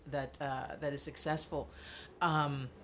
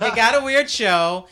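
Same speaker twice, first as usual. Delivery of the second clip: laughing repeat; 6 semitones higher, 14 dB louder than usual. Real, not acted. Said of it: "repeats own retort, laughing".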